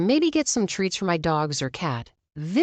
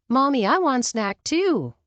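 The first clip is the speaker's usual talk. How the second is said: put-on whiny little kid; 6 semitones higher than usual. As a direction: whine like a small child. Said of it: "Entitled kid, five years old, said".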